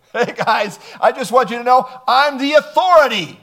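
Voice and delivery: breezy laughing hey guys; lightly voiced offhand announcement of authority; casual mock announcement. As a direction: play it like a casual, jokey heads-up. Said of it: "Jesus says".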